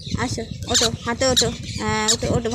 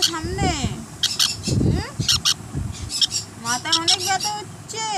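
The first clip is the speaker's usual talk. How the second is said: put-on baby talk; 5 semitones higher than usual. Owner coos to sulking pet.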